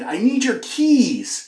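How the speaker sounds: high, drawn-out call across the house; retold shouting. Husband asking his wife for keys, calling out. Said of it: "So I shouted".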